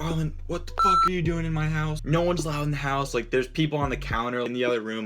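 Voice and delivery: mock a panicked older teammate; retold angry teammate. Angry teammate Tyler scolding.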